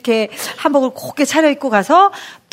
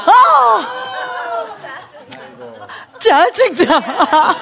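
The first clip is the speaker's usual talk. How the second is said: higher, drawn-out cry of annoyance; frustrated outburst; 9 semitones higher, much slower than usual. Retold or imitated. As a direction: let it burst out, then drag the complaint slowly. Her frustrated outburst at husband.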